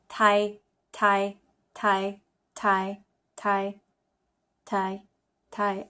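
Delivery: "Thai" said with a falling tone, over and over. Shown as a demonstration. Learner drilling the Chinese word, falling "Thai". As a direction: drop the pitch on each "Thai". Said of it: "T A I with the falling tone".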